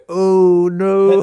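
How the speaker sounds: high collective "oh no"; shocked crowd groan. Retold or imitated. Crowd reacting to the partner being present. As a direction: play the whole audience gasping. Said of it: "seven hundred people that go".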